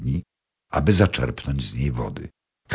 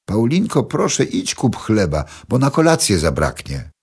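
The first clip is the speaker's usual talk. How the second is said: high, louder call from the kitchen; mother calling; 7 semitones higher, 3 dB louder than usual. A narrator's reading. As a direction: call out to the child in the next room. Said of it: "mama zawołała z kuchni". (mama woła z kuchni do córki, głośniej i wyżej)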